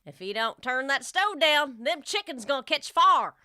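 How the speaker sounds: put-on light Southern accent; a lightly voiced Southern redneck warning. Host reads the final redneck example sentence, light Southern accent. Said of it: "I can do Southern".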